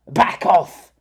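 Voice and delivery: loud angry snarl. Acted. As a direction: bark it like a threat. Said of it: "Flicker snarled".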